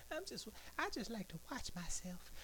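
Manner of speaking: high whispered joke. Real, not acted. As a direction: murmur it with a chuckle.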